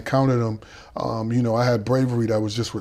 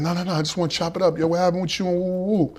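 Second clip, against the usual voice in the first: smooth talker; 7 semitones higher, faster than usual. Retold or imitated. Gotti's voice in the story.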